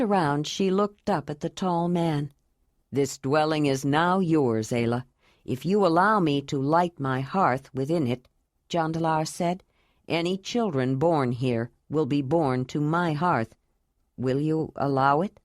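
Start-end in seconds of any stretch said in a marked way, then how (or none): 2.9-8.3 lightly lowered, earnest man's voice; a grave, tender vow, voiced a bit low; Jondalar. 10.1-15.4 lightly lowered, earnest man's voice; a grave, tender vow, voiced a bit low; Jondalar.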